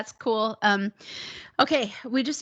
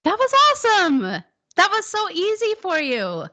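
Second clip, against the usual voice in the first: high, thrilled cheer; delighted encouragement, starting loud and high; excited praise; 7 semitones higher, 3 dB louder than usual. Real, not acted. Teacher praises student's success.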